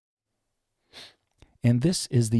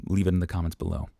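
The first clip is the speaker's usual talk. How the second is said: usual speaking voice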